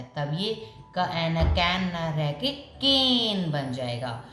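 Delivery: कैन said short, then केन with a long vowel; slow contrast of कैन and केन. Shown as a demonstration. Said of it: "sound को long बना देता है".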